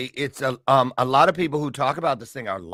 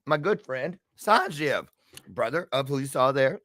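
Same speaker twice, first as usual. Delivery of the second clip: usual speaking voice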